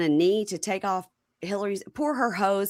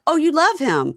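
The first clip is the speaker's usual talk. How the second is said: higher, louder mocking echo; retold scornful echo; 9 semitones higher, 6 dB louder than usual. Bonita answering Gigi's love claim, retold scornfully. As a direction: throw the words back at her.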